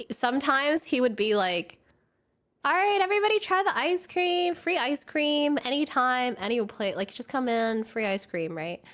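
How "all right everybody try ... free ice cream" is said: high, expansive voice easing down toward the end; jolly boss. Retold or imitated. Boss offering staff free ice cream, jolly. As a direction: imitate a big-hearted boss handing out treats. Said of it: "sometimes he would be really, really jolly".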